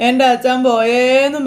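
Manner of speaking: slow tearful lament; crying. Acted. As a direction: drag it out between sobs. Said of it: "കരയുമ്പോഴത്തേക്കും".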